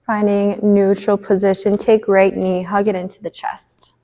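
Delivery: measured cueing with long pauses; spacious, unhurried movement cues; guided yoga instruction. Acted. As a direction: lead a gentle stretch, phrase by phrase. Leads gentle stretches on the mat.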